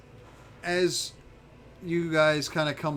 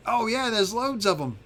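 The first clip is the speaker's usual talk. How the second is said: higher-pitched character voice; chatty little dragon informant; 6 semitones higher than usual. Acted. Little dragon telling visitors where the intruders are, higher chatty voice. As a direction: play a helpful dragon, voice pitched up.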